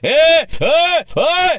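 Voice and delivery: high, loud mock yell; mocking his yell. Activist mocking the lawyer's yelling, loud mock yell. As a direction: imitate the opponent's hollering. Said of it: "तू जसं ओरडतो ना".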